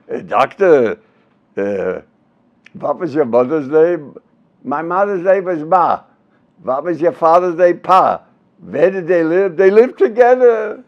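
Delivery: put-on vaudeville double act in Jewish accent. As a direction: trade questions and answers in a comic Yiddish accent. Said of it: "they talk the same way".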